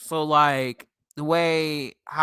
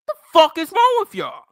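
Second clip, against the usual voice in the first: much higher and louder outraged yell; real angry shout; 6 dB louder than usual. Real, not acted. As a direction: yell it at the racist fans. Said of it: "Fucking can't stand racism".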